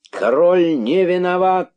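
very high, loud cry; energetic crowd shout. A narrator's reading. Rabbits clearing the king of blame, shouting. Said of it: "закричали кролики с удвоенной энергией".

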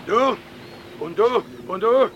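put-on loud German-accented orders. German steersman loudly sorts his crew between the houses. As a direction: bark out who stays and who goes.

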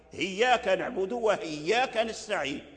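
هياك said with an h instead of the hamza of إياك; rare reading. Shown as a demonstration. Teacher reciting an odd Quran reading. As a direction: recite هياك نعبد with a clear h. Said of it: "وهي قراءة شاذة".

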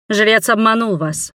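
firm princess voice; princess declaring. A narrator's reading. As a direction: declare it to the crowd. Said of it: "заявила Вейдаири". (принцесса заявляет)

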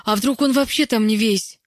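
loud, high-pitched horrified suggestion; dreadful voice. A narrator's reading. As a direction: raise a dreadful suspicion, hammed-up. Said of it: "страшным голосом сказала". (страшным голосом)

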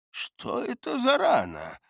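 put-on slow, high questioning old man; puzzled old healer, slowly. Gerton asks about the wound.

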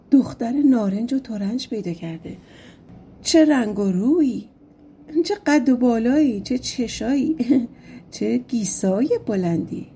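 lightly mocking, with a laugh; mocking crowd. Onlookers mock the prince and his bride, a touch of laughter. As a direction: tease the couple under your breath.

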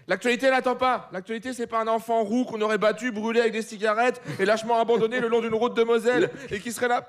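normal talking voice

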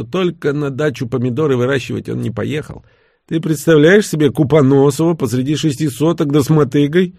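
lightly voiced Левша. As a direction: lightly voice a lively drinking companion. Narrator voices Левша in dialogue.

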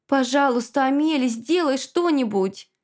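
begging, voice lifted; pleading. Acted. Girl begging the healer to save Sophie, pleading. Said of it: "взмолилась я".

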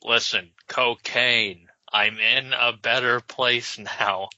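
slow, hammy dying farewell; overacted death scene. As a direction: ham up a last goodbye slowly. Ghost's dying farewell parody.

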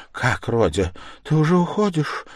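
a touch of fright, pitch rising high; alarmed question. A narrator's reading. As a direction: ask in mild alarm. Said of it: "даже с испугом спросила".

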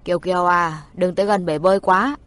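put-on caring father calling out to his child; gentle fatherly voice. A narrator's reading. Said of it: "Tiếng cha nhỏ nhẹ, trầm ấm".

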